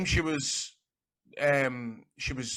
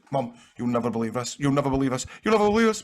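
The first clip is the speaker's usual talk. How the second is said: excited call to mum; 4 dB louder, faster than usual. Retold or imitated. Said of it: "And I was like".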